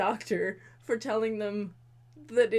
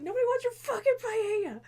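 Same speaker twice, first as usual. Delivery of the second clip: snapping; 11 semitones higher, 5 dB louder than usual. Retold or imitated. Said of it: "she's like".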